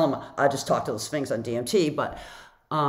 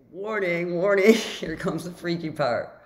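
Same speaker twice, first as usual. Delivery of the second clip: mock warning; 3 semitones higher than usual. Mock alarm before the freaky part.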